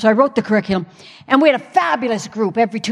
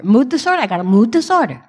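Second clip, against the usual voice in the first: mock Italian. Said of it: "Why am I talking like this? I'm not even Italian".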